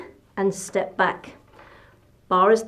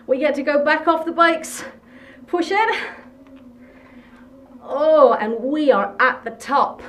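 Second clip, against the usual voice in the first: pitched up, urging riders to the summit; excited push; 4 semitones higher than usual. Real, not acted. Coach cheering riders up the last climb, excited. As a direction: cheer them through the last seconds of the climb. Pushing class up final climb.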